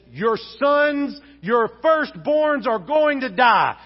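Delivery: slow, weighty pronouncement; stern prophetic warning. Acted. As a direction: proclaim doom to a king. Moses pronounces doom to Pharaoh.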